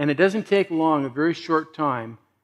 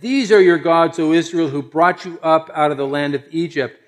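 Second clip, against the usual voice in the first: mildly declaimed announcement, loud at first; proclaiming; 4 dB louder than usual. Acted. The people present the golden calf to Israel, proclaiming it. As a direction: start strong, then settle as you proclaim.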